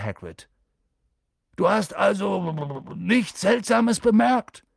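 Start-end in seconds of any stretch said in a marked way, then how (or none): 1.5-4.7 high, loud, drawn-out question; exasperated. A narrator's reading. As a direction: press slowly and loudly for an answer. Hagrid presses an evasive centaur. (laut und ungeduldig nachgehakt)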